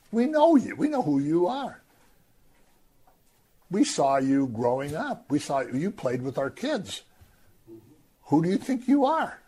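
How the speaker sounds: high, mocking disbelief from the hometown crowd; scornful townsfolk. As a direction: sneer at the local boy who thinks he's special. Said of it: "And they say".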